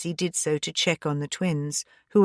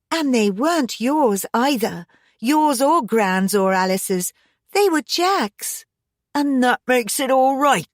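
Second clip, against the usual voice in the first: higher, louder indignant comeback; indignant quarrelling daughter; heated retort; 6 semitones higher, 4 dB louder than usual. A narrator's reading. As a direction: argue back hotly, hammering each name. Heated quarrel with her father.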